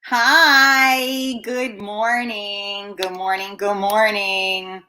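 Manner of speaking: long, slow sing-song good mornings; drawn-out greeting. Real, not acted. Host opening the morning show to viewers, drawn-out greeting. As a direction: stretch each greeting out lazily.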